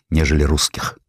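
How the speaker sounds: usual speaking voice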